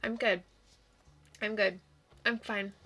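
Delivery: pretending to be okay; brave face. Sad dog insists he is fine.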